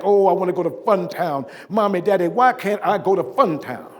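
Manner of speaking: a mild imitation of a child demanding her way; emphatic child. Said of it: "and she was emphatic".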